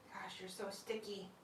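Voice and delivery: soft voiceless whisper. Real, not acted. Owner whispering to her glider about its sticky nails. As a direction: hush it to the pet.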